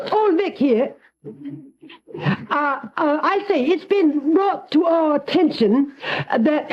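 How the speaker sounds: lightly put-on English accent; mock English accent. Prank caller fakes an English accent to Ollie. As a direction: play a stuffy English caller from the south of England. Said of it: "You sound a little southern".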